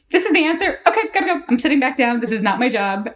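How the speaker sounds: high, brisk and chirpy mock announcement; quick eager interjection. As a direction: toss it off eagerly and sit down. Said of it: "I was like".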